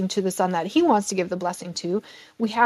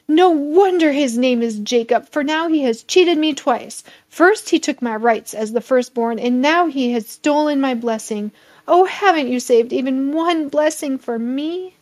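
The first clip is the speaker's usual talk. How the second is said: a higher, louder mild outcry; exclaiming; 5 semitones higher, 4 dB louder than usual. Acted. Esau complaining to his father about Jacob, mild raised outcry. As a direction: protest the double cheat. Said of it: "Esau exclaimed".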